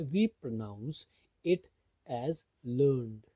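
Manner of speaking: learned said slowly as "learn-id"; slow teacher read of learned ending in id. Shown as a demonstration. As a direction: stretch out learned, ending it on a clear id sound. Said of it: "आईडी, ईडी नहीं पढ़ा".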